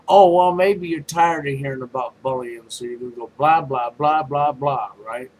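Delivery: loud, sarcastic burst; loud mock sympathy tipping into dismissive chanting; mocking dismissal. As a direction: brush it off mockingly with blahs. Mocking people tired of hearing it.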